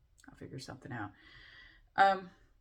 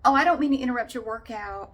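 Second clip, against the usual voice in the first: higher, louder mock whimpering over a twisted ankle; whiny attention seeker; 8 semitones higher, 8 dB louder than usual. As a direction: ham up the injured drama queen, fishing for sympathy. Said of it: "they just kept going".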